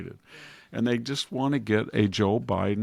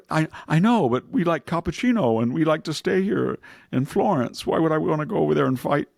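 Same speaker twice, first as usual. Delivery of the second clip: mock reluctant European; 6 semitones higher, 3 dB louder than usual. European voiced refusing to fight.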